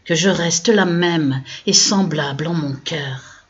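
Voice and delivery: slow, measured verse with pauses between lines; poem recitation. Acted. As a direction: recite your own poem line by line, drawing out each ending. Recites her poem from memory.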